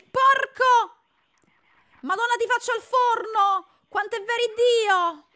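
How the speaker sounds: loud, high, angry threats; furious outburst. Real, not acted. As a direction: blow up at the rabbit. (sfuriata rabbiosa)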